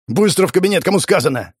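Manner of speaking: high, sharp angry bark; a furious superior snaps. A narrator's reading. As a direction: bark the order, no arguing. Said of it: "рявкнул Владимир Николаевич".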